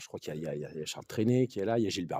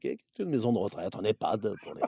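Alain Juppé impression. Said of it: "hein, monsieur Juppé".

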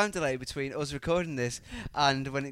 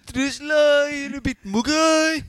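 high squeaky voice; 10 semitones higher, 11 dB louder than usual. Pretend. Both in squeaky put-on voices.

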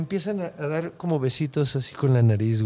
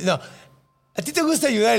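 mock outburst; 5 semitones higher than usual. Retold quote of himself arguing back.

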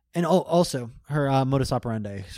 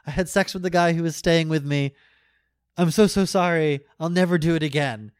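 higher-pitched, pleading apology, imitating tears; mock tearful confession; 5 semitones higher, 4 dB louder than usual. Woman confessing to her boyfriend on the phone, mock tearful. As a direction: imitate a distraught, gushing apology. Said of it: "she immediately starts crying".

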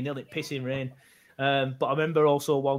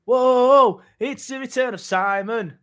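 put-on Irish accent; 6 semitones higher, 6 dB louder, much slower than usual. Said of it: "that was meant to be Irish".

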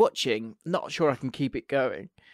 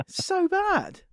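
amused; much slower than usual. Real, not acted. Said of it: "laughing over the dub".

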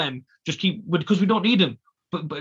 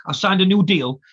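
put-on Scottish accent; 3 semitones higher, 6 dB louder than usual. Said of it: "in his Scottish accent".

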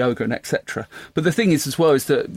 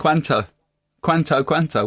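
mock Spanish accent. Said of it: "very authentic accent".

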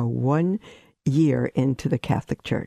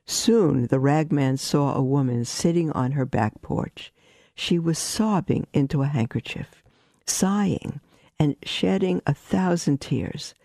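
story narration; 2 semitones higher than usual. A narrator's reading. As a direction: build the picture gently. Reads a story aloud.

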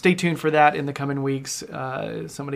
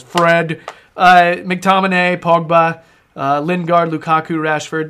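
"Fred" in a nerdy voice, said a little louder; nerd voice; 4 dB louder than usual. Shown as a demonstration. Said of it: "I just have to say it in my nerd voice".

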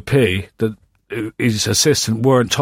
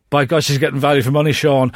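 actor's line, fast. Retold or imitated. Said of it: "He comes in and goes".

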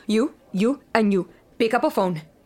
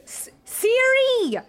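very slow, high, spelled-out command; slow furious command; 6 semitones higher, much slower than usual. Acted. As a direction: enunciate every word to the phone. Commanding phone assistant in rage.

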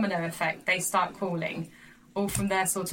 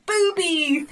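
amused; 10 semitones higher, 6 dB louder than usual. Retold or imitated. Repeating son's word.

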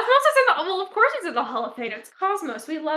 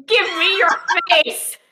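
gleeful shout; 6 semitones higher, 7 dB louder than usual. Pretend. Acting villain's gleeful demand.

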